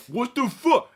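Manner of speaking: loud, high disbelieving yell; outraged yell. Retold or imitated. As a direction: yell it like an indignant redneck. Hick guys reacting in disbelief.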